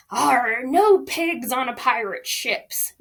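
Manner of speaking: gruff captain brushing off the pig; growling pirate captain. Acted. Captain refusing the pig aboard, mock pirate growl. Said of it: "growled Captain Wimbley Shins".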